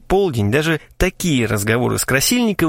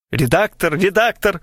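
higher mock exclamation; cried out; 6 semitones higher than usual. A narrator's reading. Narrator dramatically calls for the editor, mock exclamation. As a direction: call out theatrically. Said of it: "вскричал я".

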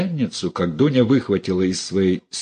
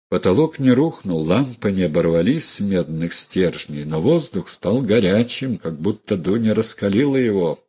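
ordinary delivery

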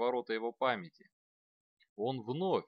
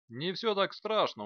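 reassuring; 8 semitones higher, 4 dB louder than usual. A narrator's reading. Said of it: "утешил он".

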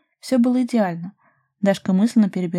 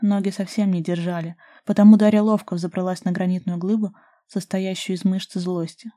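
plain reading voice

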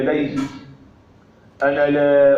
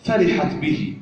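poetry recitation. Acted. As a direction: recite the poem line by line with pauses. (إلقاء شعري متأنٍّ)

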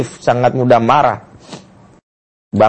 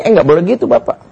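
mother interrupting father; 5 semitones higher, faster than usual. Acted. Mother cuts off father's excuse.

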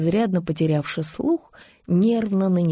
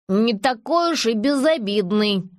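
grumpy nasal mutter; 3 semitones higher than usual. Acted. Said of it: "сварливо прогундосил".

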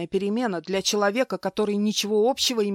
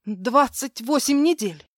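ragged breath; 6 semitones higher, 5 dB louder than usual. Acted. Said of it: "рвано выдохнула".

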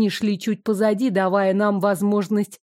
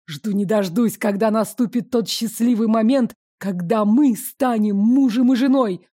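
breathy. Acted. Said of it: "произнёс Копытов с придыханием".

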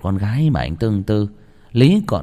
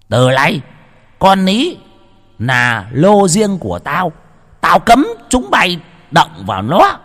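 much higher, louder, slow proclamation; loud decree; 8 semitones higher, 6 dB louder, slower than usual. A narrator's reading. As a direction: lay down the law to the household. Lão Mai tuyên bố. (lão chủ tuyên bố dõng dạc)

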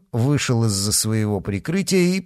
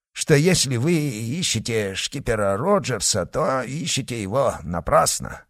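put-on Irish accent. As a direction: fake an Irish brogue. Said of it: "имитируя ирландский акцент".

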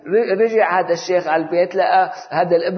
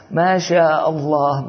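slow, drawn-out mock admiration; slow sarcastic wow; mocking praise; slower than usual. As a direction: stretch it out, teasing him. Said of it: "يقرق عليه ويضحك عليه".

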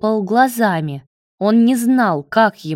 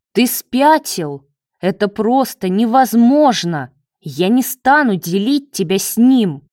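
shocked outburst; 3 semitones higher, 4 dB louder than usual. Acted. Leo refuses to share David with Marat, a shocked louder outburst. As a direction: throw it back at him, appalled.

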